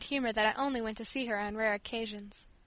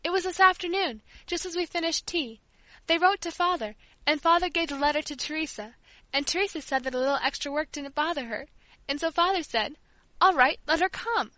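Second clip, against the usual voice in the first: eager; 4 semitones higher than usual. Acted. Child eagerly reporting.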